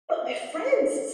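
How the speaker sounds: high, slow parrot plea; worried little parrot. A narrator's reading. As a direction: voice a small parrot pleading for friends. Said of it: "said the parrot".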